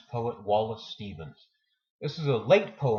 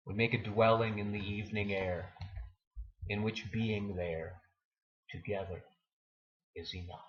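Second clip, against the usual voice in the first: fading repeat; 2 semitones lower, 8 dB quieter than usual. Acted. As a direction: let the closing lines die away gently. Closing lines repeated, fading.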